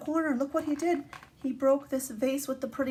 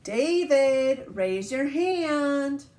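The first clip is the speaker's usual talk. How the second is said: strict teacher; 3 semitones higher, 4 dB louder, much slower than usual. Acted. Teacher's rule.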